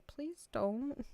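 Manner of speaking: high-pitched pleading, half laughing; hammed-up weepy plea breaking into giggles; mock bawling. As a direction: imitate yourself begging through tears. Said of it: "I was just bawling".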